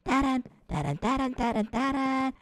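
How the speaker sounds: low, hushed sneak tune; hiding hush. Acted. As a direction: hum quietly while hiding. Hiding from the monster.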